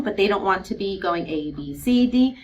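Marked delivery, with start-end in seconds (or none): 1.3-2.4 letters run together without pauses; quick alphabet chant, losing track; singsong run-through. Shown as a demonstration. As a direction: rattle off the letters like the alphabet song. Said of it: "kind of singing the song".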